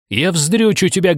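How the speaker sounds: high, seething repeated threat; raging woman repeats her vow, high; furious threat. Acted. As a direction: hammer the same threat home.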